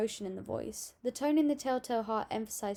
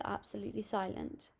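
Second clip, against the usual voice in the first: quieter; 6 dB quieter than usual. Retold or imitated. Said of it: "he still went quieter when he said".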